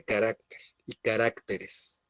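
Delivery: "carácter" stressed on the middle A, ca-RAC-ter. Shown as a demonstration. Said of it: "con acento en la A". («carácter» con acento en la segunda A)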